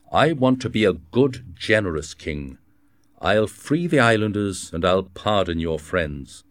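a proud young king handing down his decision, mildly acted; a hint of a commanding king. King speaks to D'Artagnan.

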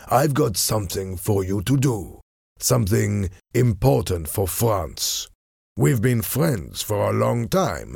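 lightly voiced sly French envoy; smooth, probing character voice, understated; cunning Frenchman. French envoy needling an old acquaintance about her English life, slyly.

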